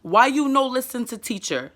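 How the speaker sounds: broken simple English at a normal pace; simple child talk. Shown as a demonstration. Mother asks son why he ignores teacher, simple talk. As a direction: ask it like a mom at child level. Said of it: "I talk to him like that".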